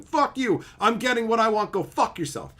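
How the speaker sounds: mock new player. Imitating new players telling old fans off, high and sneering. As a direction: sneer it like a bratty newcomer. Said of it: "That's what the new people come in and say".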